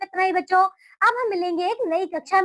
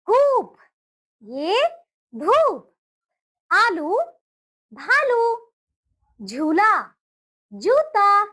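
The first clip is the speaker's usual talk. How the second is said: clear word-by-word reading; 3 semitones higher, slower than usual. Shown as a demonstration. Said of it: "अब पढ़िए मेरे साथ".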